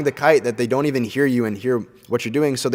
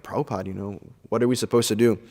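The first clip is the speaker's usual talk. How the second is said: worried plea; 3 semitones lower, 7 dB quieter, faster than usual. Retold or imitated. Disciples ask Prabhupada.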